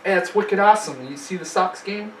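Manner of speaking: put-on a light, halting Boston accent, giving up midway. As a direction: try a Boston accent and fumble it. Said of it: "do your Boston accent".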